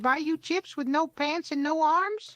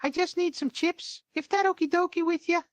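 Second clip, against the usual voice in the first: talking with a card between teeth; words pushed past a card held in the teeth; mouth full. Acted. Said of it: "Holds up vaccination card with teeth".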